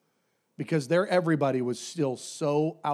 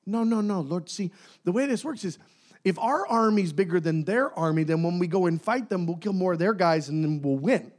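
higher, earnest mock protest; mock arguing; 3 semitones higher than usual. Gideon protesting to God in mock high earnestness. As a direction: explain it like a know-it-all.

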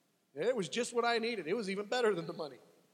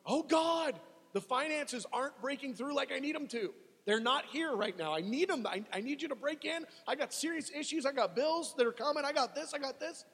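higher, pleading worried prayer; mild mock prayer; 6 semitones higher than usual. Believer short of money praying to God, mildly worried plea. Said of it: "you're crying out, you're going".

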